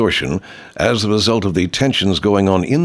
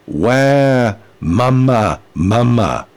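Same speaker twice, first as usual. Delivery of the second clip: put-on baby crying mantra; much slower than usual. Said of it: "delivered in the right tonality".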